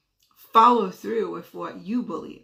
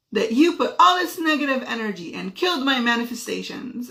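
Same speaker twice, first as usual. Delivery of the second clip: higher-pitched imitation of an accusing child; emotional accusation; 4 semitones higher, 4 dB louder than usual. Daughter sharing her thorn at dinner, emotional accusation. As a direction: blame mom, lightly acting upset. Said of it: "She's emotional about this".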